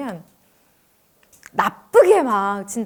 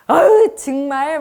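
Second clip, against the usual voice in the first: slow, louder fed-up groan; exasperated sigh; 2 semitones higher, 6 dB louder, slower than usual. Retold or imitated. Wife fed up with her husband's drinking, slow exasperated groan. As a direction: drag it out, fed up with him. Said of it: "막 이러면서".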